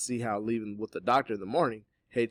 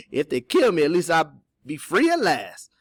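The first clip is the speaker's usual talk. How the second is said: lightly amused, higher character voice; light laugh, then a raised-pitch reply; quiet laughing; 7 semitones higher, 11 dB louder than usual. A narrator's reading. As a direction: toss it off with a small chuckle. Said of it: "Cato laughed quietly".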